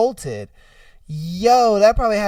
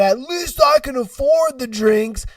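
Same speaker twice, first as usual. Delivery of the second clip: higher-pitched mock boast; mocking imitation; 4 semitones higher than usual. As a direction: throw the snooty remark back, mockingly. Mocking repeat of the customer's boast.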